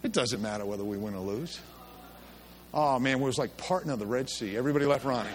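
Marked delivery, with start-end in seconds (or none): 0.0-1.6 put-on naive kid. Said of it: "Ronnie says".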